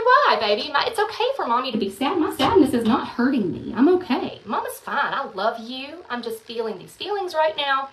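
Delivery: gentle reassurance. Retold or imitated. Mom soothing her son, softening toward the end. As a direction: comfort him gently. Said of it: "I said".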